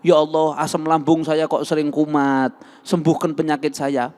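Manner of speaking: keluhan doa orang sakit, agak keras; sick person's prayer. Shown as a demonstration. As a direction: mengadu kepada Allah dengan memelas. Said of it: "jangan, minta sama Allah". (contoh doa orang sakit kepada Allah)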